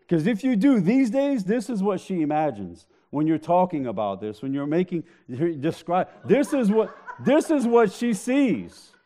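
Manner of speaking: laughing tease. Real, not acted. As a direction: crack up at the image.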